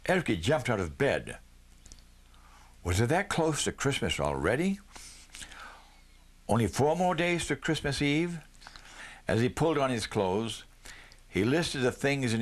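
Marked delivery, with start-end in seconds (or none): 2.8-8.4 breathy whispered wonder. A narrator's reading. Boy realising Christmas is near, whispered to himself. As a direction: whisper it to yourself in disbelief. Boy's excited inner thought.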